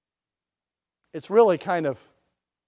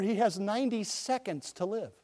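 offhand farmer; 11 dB quieter than usual. Retold or imitated. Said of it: "And the pig farmer said".

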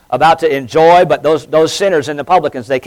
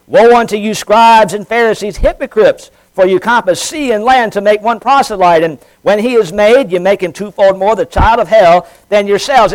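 raised, emphatic scripture delivery; preached scripture reading; 4 semitones higher than usual. Acted. Preacher reading a rebuke to the Pharisees, emphatic proclamation. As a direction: proclaim the woes with deliberate weight. Reads scripture aloud with force.

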